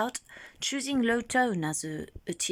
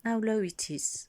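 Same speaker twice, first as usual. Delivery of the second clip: whisper; 3 semitones higher than usual. Shown as a demonstration. Checking her low voice.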